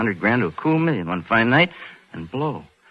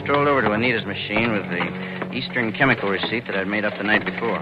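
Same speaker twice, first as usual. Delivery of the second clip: noir narration. A narrator's reading. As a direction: tell it like a man confessing his own crime. Narration resumes over music.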